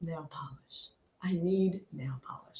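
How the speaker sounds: very soft, low imitated voice; retold musing request. Quoting her hospital wish after some thought, hushed imitation. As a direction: quote her in a near-murmur, as if pondering. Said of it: "she kinda thought about it".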